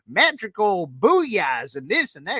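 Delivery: slow, lightly voiced hype man; hype guy imitation. Hype regular imitated with a slow, light voice. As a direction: drag out the hype like a cheerleader. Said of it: "he's like".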